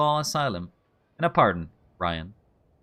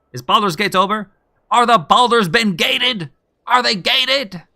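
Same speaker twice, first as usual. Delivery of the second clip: playful teasing; 8 semitones higher, 9 dB louder than usual. Real, not acted. Teasing a newcomer about game.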